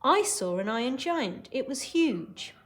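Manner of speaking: lightly acted scared boy; Hogarth. Teacher as Hogarth telling Dad of the giant, mildly scared. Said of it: "He's very scared at this point".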